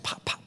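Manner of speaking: whispered punch pops; quick soft pops for punches; jab sounds. Retold or imitated. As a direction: pop it out without voice. Acting out quick jabs.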